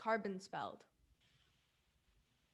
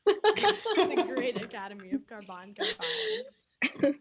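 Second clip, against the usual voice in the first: slow, louder mock-grand proclamation; 3 semitones higher, 8 dB louder, slower than usual. Real, not acted. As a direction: proclaim it with pomp. Repeating the name grandly.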